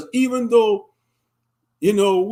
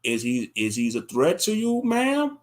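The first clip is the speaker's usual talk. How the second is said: dispatcher; 4 semitones lower than usual. Retold or imitated. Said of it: "the dispatcher gonna be like".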